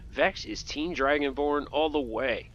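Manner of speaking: ordinary talk, nothing marked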